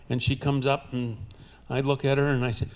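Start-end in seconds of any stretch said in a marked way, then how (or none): none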